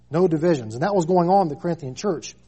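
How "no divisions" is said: louder, punch "No"; preacher driving the point home; firm repeat. Shown as a demonstration. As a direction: hit "No divisions" hard. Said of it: "There be no divisions".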